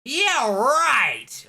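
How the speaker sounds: loud high scoffing; sarcastic shout. Real, not acted. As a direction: throw it back in disbelief. Scoffs at game unfairness.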